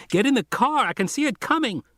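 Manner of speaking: put-on a frightened kid warning them over static; high scratchy warning from a boy; scratchy radio voice. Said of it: "Arby was saying".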